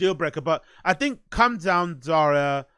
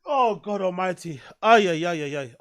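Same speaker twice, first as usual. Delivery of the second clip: sneezing; 3 semitones higher, 3 dB louder than usual. Real, not acted. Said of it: "Sorry, I'm gonna sneeze here".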